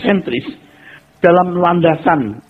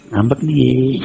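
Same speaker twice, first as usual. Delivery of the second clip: angel teasing; much slower than usual. Retold or imitated. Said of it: "malaikat berkata begini".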